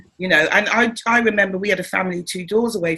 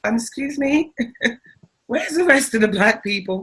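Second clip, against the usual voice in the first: mock polite; 4 semitones higher than usual. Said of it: "I'd be like".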